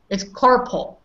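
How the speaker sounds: carpool softened to carpal, no oo in it; correct pronunciation. Shown as a demonstration. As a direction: say carpool as KAR-pul, like carpal. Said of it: "There is no car and there is no pool".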